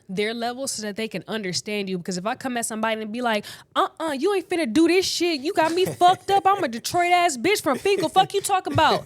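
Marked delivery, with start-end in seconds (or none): 3.8-9.1 loud, high, heated AAVE street voice; Detroit AAVE. Shown as a demonstration. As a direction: snap at them in raw Detroit AAVE, full volume. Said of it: "See how I can switch between".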